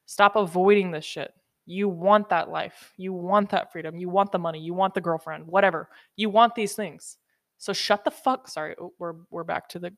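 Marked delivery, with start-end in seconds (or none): 0.1-8.5 firm scolding. Acted. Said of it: "that's how I talk".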